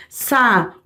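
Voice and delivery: SA-U-DE in separate beats, long U; syllable by syllable. Shown as a demonstration. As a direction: break it up: SA... U... DE. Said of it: "Mesma coisa com a palavra saúde".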